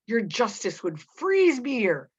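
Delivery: slow, bitter jab; a bitter, mocking line. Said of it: "Proctor laughs bitterly".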